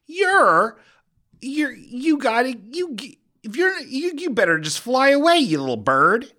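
high mock-dramatic squeal; silly squeaky bit. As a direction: squeak it out as a punchline. Comedic bit, rising voice.

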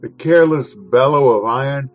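measured, expressive reading of a classic essay; dramatic literary reading. Acted. Host reading Gorky's essay to listeners, dramatic reading. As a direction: paint the city of fire with your voice.

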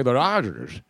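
light broadcaster impression; a hint of put-on announcer; Ross Porter. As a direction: imitate a radio man's slurred team name. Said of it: "So when he would say".

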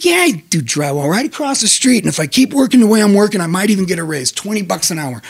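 lightly voiced proud duck. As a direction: brag a bit like a cartoon duck. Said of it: "Duck's like".

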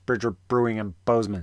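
hurried go at a tongue-twister; fast tongue-twister. Shown as a demonstration.

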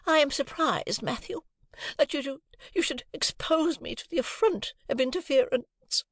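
high, wounded haughty voice; affronted wife. A narrator's reading. Wife rebuking husband Matthew, high and affronted. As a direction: play the insulted lady.

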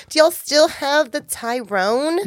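put-on slow, lilting white girl voice. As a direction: act out a naive customer's request. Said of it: "I'm gonna be like".

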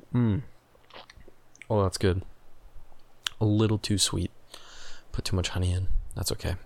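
words right after a sip; talking between sips of tea; while sipping a drink. Real, not acted. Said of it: "I'm gonna take a sip".

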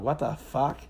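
drawn-out mock disbelief; incredulous. Man replaying his reaction to a girl googling him, incredulous. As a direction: act out stunned disbelief, stretching the words.

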